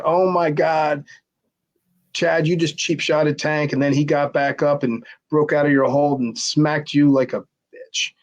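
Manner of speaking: slow, high, stretched-out disbelief; ribbing a friend, drawn out; the guys hooting at Chad in slow, high disbelief; mock amazed crowd. Guys retelling, laughing at Chad.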